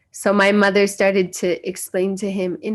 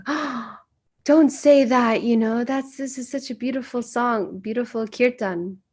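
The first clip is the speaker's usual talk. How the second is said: higher-pitched gentle protest after a gasp; imitated motherly dismay, pitched up; retold dismayed mother; 4 semitones higher than usual. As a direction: plead as a shocked mother. Mother's dismayed reply acted out.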